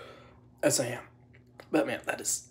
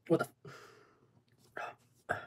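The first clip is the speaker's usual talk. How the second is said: shocked outburst; 6 semitones higher than usual. Real, not acted. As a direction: blurt it out as the heat hits. Reacting to the spice hitting.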